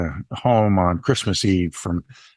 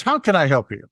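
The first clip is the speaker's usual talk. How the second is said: raised, perky service voice; excited barista; 5 semitones higher, faster than usual. Retold or imitated. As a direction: imitate an eager barista. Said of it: "to be that excited".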